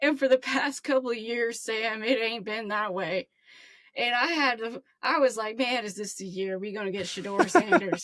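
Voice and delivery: lightly voiced wistful call-in fan; Herbie. Caller telling host about hard years, lightly put-on character voice. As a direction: lament the past seasons to the host. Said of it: "I'm gonna be a new character now".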